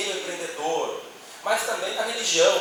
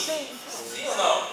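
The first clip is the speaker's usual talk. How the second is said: asked slowly and higher, prompting the crowd; slow, higher quiz question; 7 semitones higher, much slower than usual. Shown as a demonstration. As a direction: draw the question out to the audience. (pergunta lenta e mais aguda ao público)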